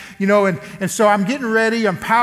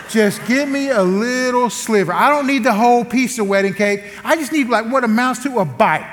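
wheedling plea, climbing higher; pleading; 4 semitones higher than usual. Retold or imitated. Husband begging wife for a little sliver of cake, pleading. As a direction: beg for it, shrinking the voice at the end.

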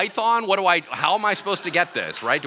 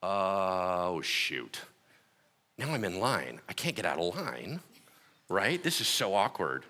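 nervous inner thought; 9 semitones lower, 6 dB quieter, slower than usual. Retold or imitated. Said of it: "And I was like".

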